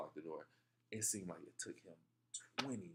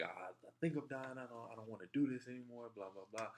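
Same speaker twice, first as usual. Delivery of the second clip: mock crying plea; 5 semitones higher than usual. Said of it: "I'm crying at this point".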